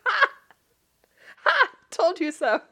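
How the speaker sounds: loud, high triumphant crowing; mock gloating. Bride telling her friend she was right, gloating loudly. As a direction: crow it like you just won the argument.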